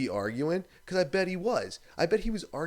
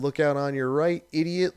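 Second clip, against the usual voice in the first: mock yell; 7 dB louder than usual.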